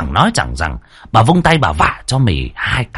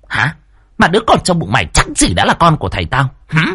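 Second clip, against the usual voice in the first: much higher, fast, sneering abuse; a spiteful daughter dragging the maid by her hair; vicious shrewish tirade; 10 semitones higher than usual. A narrator's reading. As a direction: tear into the maid with contempt.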